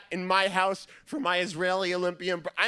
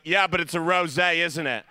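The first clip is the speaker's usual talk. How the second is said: mom's nitpick; 6 dB louder than usual. Retold or imitated. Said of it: "my mom be like".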